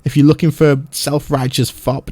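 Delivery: rough swaggering pirate; lightly voiced sea-dog sneer. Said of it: "I hope you all liked my pirate, um, voice".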